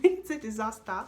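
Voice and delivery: laughing at her own bad luck. Real, not acted. Repeating it to viewers, laughing. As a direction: laugh through "It's a disaster".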